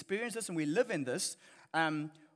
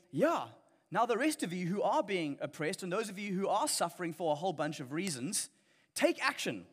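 a hint of a rallying agitator; mock call to take back what's yours; imitating Karl Marx's call. Preacher voicing what Marx would say, a light rallying cry. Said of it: "That, that's what Karl Marx would say".

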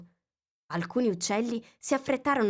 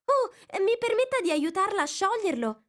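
high, bright offer of help, louder; eager girl; 14 semitones higher, 4 dB louder than usual. A narrator's reading. Alice eagerly offering to untie the knot for the mouse. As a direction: rush to be useful.

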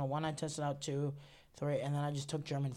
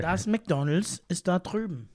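lively, louder German accent; 3 semitones higher, 5 dB louder than usual. Shown as a demonstration. Friend showing off German on a podcast, German accent. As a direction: say it briskly with a full German accent. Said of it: "do it in the accent".

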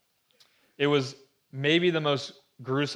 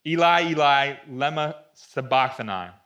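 raised voice, a measured scriptural cry; 6 dB louder than usual. A narrator's reading. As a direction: read it out as a loud cry. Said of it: "cried out in a loud voice".

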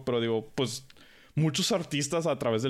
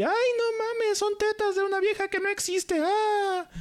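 much higher, whiny mock outrage; offended person. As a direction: mimic an easily offended prude. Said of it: "me ofendo por cualquier pendejada".

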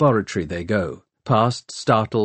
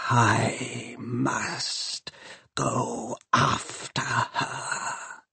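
slow, hissing machine whisper; dark whisper behind you; 3 semitones higher, 8 dB quieter, much slower than usual. Acted. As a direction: breathe it like steam. Shrike's voice held.

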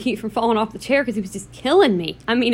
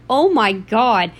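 slow, stretched-out exclamation; retold amused disbelief; slower than usual. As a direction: draw out each word in mock shock. Retelling amused shock at game gore.

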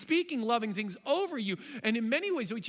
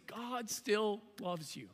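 earnest assurance; 5 dB quieter, much slower than usual. Acted. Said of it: "I just wanna stare you right".

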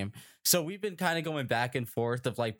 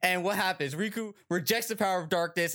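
dramatic hype; 7 semitones higher than usual. Acted. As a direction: sell it like an epic game trailer. Hyping up Kingdom Hearts plot.

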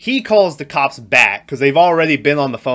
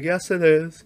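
a hint of a creepy old man; lightly done creepy old man voice; Patrick Stewart voice; 5 semitones higher than usual.

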